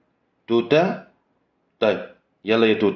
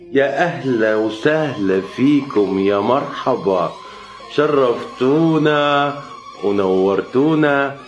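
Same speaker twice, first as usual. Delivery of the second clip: hostess welcome; 3 semitones higher, much slower than usual. Acted. Hostess welcoming suitor's family.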